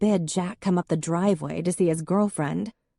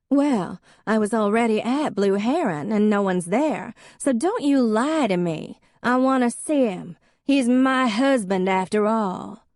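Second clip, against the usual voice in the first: put-on high, louder drunken insistence; drunk indignant woman; 6 semitones higher, 4 dB louder than usual. A narrator's reading. Drunk ex-wife accusing Em of lying, high and loud. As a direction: accuse her, sloppy and righteous.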